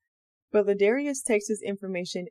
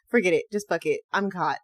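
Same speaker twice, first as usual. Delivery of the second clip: giving up; 5 dB louder than usual. Pretend. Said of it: "I'm just not good".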